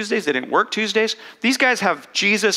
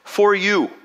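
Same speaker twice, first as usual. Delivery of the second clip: Jesus calls out whoa, then speaks slowly; Jesus stopping them; 4 semitones higher, slower than usual. Retold or imitated. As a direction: halt them, then slow down to offer the gift. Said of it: "And he goes".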